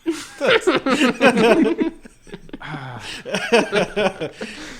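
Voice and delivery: long, high, loud laugh; big real laugh; burst of laughter. Real, not acted. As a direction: crack up at being caught out. Friend calls out his habit.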